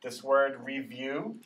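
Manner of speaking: "review" said slowly, long E stressed; model word. Shown as a demonstration. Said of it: "That's the long E sound".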